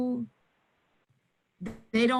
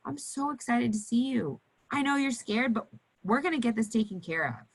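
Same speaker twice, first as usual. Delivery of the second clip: gentle excited greeting; 4 semitones higher than usual. Shown as a demonstration. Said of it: "you are smiling and you have some sort of item".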